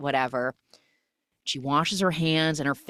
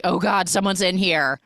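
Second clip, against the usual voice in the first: startled; 3 semitones higher, 5 dB louder than usual. Retold or imitated. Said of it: "she's like".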